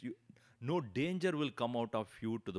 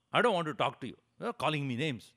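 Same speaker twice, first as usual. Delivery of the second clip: louder hurt refusal; sulky refusal; 6 dB louder, faster than usual. Retold or imitated. Upset man refusing the Swami's call to come back, sulky and louder. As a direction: refuse him, offended. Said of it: "angry and upset".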